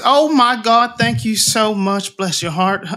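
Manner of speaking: high, gushing thanks; grateful halfling mother. Acted. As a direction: pour out gratitude.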